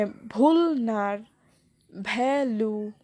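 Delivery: ভুল নার and ভ্যালু split slowly, front-weighted; first syllable stressed. Shown as a demonstration. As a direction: lean on ভুল and ভ্যা, lighten endings. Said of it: "প্রথমে stress, তারপর unstress".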